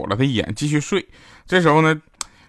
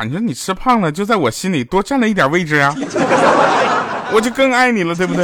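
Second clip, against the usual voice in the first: laughing sweet talk; 6 semitones higher, 4 dB louder than usual. Retold or imitated. Husband sweet-talks his wife.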